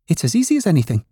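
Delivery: high-pitched rabbit character voice; boastful furry rabbit. A narrator's reading. Furry rabbit showing off its hop, boastful high voice.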